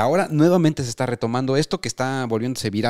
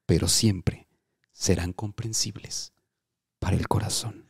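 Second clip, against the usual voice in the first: mock inspirational; 3 semitones lower than usual. Mock inspirational dream message.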